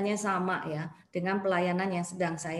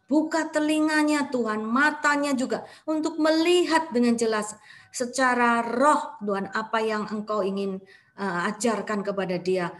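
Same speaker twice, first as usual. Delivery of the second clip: fervent prayer; 3 dB louder than usual. Acted. Prays aloud for the woman.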